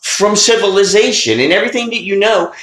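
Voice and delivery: hammed-up Santa Claus scolding a would-be dentist; angry Santa. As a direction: bellow like a furious Santa Claus. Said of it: "And Santa's like".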